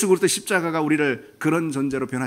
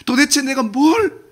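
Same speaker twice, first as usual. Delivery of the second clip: strong tone; 9 semitones higher, 4 dB louder than usual. Acted. God demanding of Adam in a strong, pained tone. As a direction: press each word like a wounded father. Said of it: "이런 아주 강한 어조의 표현입니다".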